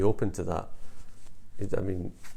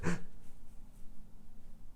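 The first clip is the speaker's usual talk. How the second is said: quiet, voiceless huff of a laugh; imitated smiling laugh; 9 dB quieter than usual. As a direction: mimic a small breathy smile-laugh. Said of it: "he sort of smiled and went".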